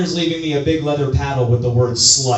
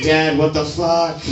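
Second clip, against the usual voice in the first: mock shocked discovery; slower than usual. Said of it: "be like".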